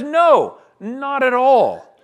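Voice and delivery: loud, high, slowing emphatic denial. Acted. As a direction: thunder the no from the pulpit. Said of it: "The answer is an emphatic no".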